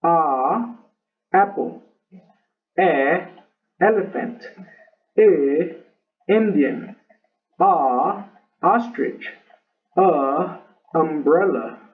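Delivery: each vowel sounded, then apple, elephant, Indian, ostrich, umbrella in English; short vowel examples. Shown as a demonstration. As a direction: model the short vowel before each word. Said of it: "Primero vamos a hacer las cortas".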